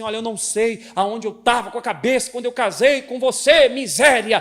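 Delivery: loud, high hurtful outburst; angry husband. Retold or imitated. Husband insults his wife in anger, loud. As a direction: lash out at your wife. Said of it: "Chega na esposa e diz assim".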